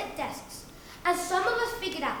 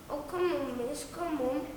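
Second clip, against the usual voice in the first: softer pleading whine; whiny kid; 3 semitones lower, 6 dB quieter than usual. Acted. Whiny kid begging miss, quiet whining plea. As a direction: plead under your breath like a pupil. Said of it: "The whiny ones".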